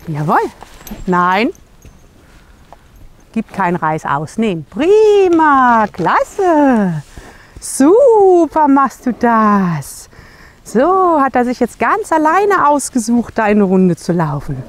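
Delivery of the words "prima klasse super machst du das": bright, higher, louder praise, drawn out on super; praising a horse. Real, not acted. Trainer praising her horse, higher and louder, drawn out. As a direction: cheer the horse on, stretching the words.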